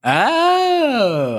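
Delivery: long, high 'oh' of realization; baru paham. Real, not acted. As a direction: draw it out high as it dawns on you. Finally gets the pun.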